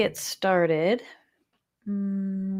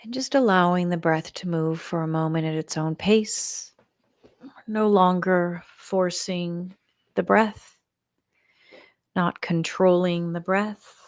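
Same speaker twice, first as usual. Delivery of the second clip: measured meditation guide with long pauses; guided meditation. Shown as a demonstration. Leader settles the group to let go and create space, guided meditation. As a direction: guide them gently, leaving room between phrases.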